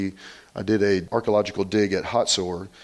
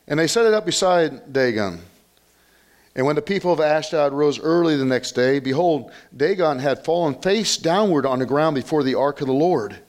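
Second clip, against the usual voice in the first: raised, emphatic Bible-reading voice; scripture reading; 4 semitones higher than usual. Acted. Preacher reading the fall of Dagon, raised scripture-reading voice. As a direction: read the verse out to the congregation.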